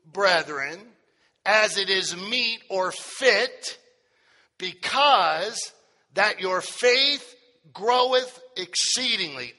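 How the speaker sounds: slow, measured Bible reading; solemn scripture reading. Acted. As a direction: read the verse out slowly, phrase by phrase. Reads scripture aloud to congregation.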